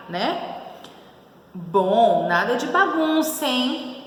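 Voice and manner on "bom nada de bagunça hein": high-pitched warning, rising on hein; lightly acted admonishment. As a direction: caution them with a questioning tag. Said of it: "tô advertindo ali".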